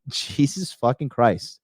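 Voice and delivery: slow, exasperated oath. Real, not acted. Streamer despairing at society, exasperated. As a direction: drag out each word in dismay. Dismayed reaction after the rant.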